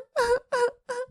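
choked-back sob in a high voice; stifle a sob; muffled sob. A narrator's reading.

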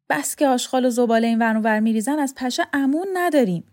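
lightly voiced, fed-up complaint; grumbling story character.

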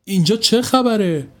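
ask, lost; a hint of sleepy confusion; confused. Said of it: "گیج و مبهم مونده بود".

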